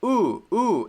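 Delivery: a drawn-out "ooh" held clearly; teacher demonstrating "ooh"; long ooh sound. Shown as a demonstration. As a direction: model the "ooh" vowel slowly. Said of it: "the same ooh as in my name".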